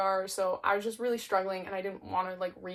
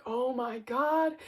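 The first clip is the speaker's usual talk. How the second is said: mock terrified; 4 semitones higher, much slower than usual. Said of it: "so Skeeve's like".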